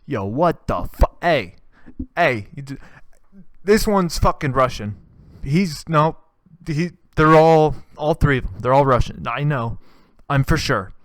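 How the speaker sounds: hammed-up panic, pointing out Russians; mock outraged yell. Volunteer yelling that the refugees are Russian, loud mock outrage.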